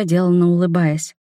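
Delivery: ordinary delivery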